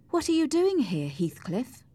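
high-pitched angry demand. A narrator's reading. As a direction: confront him, pitched well up. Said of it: "Cathy asked him angrily".

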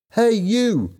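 high-pitched call to someone; shouting. A narrator's reading. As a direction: call out sharply to get his attention. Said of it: "she shouted".

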